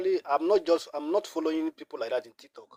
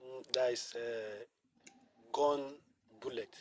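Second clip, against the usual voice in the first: soft, faint, hard to hear; speaking too quietly into the phone; barely audible; 3 semitones lower, 9 dB quieter, slower than usual. Real, not acted. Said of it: "Sorry, can you speak out a bit?".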